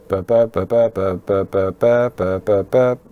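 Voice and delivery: hop between just two tones on each burp; bitonal intonation demo. Shown as a demonstration. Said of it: "if I speak like this, you can see that I'm only using two tones".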